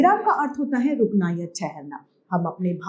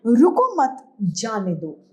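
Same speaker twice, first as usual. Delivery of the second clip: slow रुको मत, then a break before जाने दो; group रुको मत together, pause, then जाने दो; pause after मत; 2 semitones higher, slower than usual. Shown as a demonstration. Teacher reads a punctuation example, pausing after मत. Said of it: "इसका मतलब है कि इसे जाने की".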